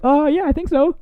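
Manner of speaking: laughing through the quote. Retold or imitated. Prankster answering the guy at his door, laughing high. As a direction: giggle out the innocent reply. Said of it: "And he's like".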